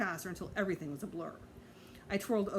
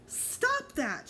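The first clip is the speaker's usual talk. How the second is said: much higher sharp yell. A narrator's reading. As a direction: snap at them to stop. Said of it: "Sheila yelled".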